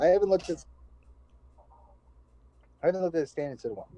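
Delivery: talking through hiccups; hiccupping mid-sentence. Real, not acted. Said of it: "Oh my God, I have hiccups".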